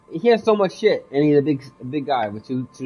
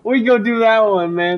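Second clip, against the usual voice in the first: much higher, louder put-on voice; silly high voice; 10 semitones higher, 8 dB louder than usual. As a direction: keep the goofy high voice going. Still in put-on voice.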